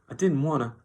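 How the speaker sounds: high, loud whimpering protest; distressed cry. A narrator's reading. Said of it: "Lenny cried".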